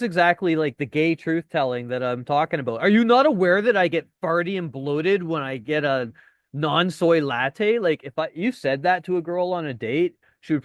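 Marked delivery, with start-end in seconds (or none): 2.8-7.8 camp imitation. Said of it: "that's gay humor right there".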